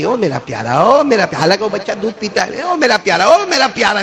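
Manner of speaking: a hint of a mother calling her baby. Preacher imitating a mother calling to her crying baby, tender. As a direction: lightly voice a loving mother calling out. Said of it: "ماں دور سے ایک آواز دی".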